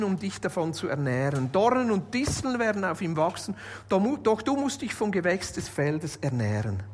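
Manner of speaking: measured, solemn Bible reading voice; scripture reading. Acted. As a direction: read the verses as holy text, unhurried. Reads Genesis 3 aloud.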